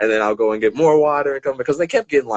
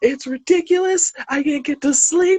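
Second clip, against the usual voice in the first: very high-pitched, acted-out yelling. Retelling a woman who could not sleep, imitating someone yelling. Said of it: "she just starts screaming and she's yelling".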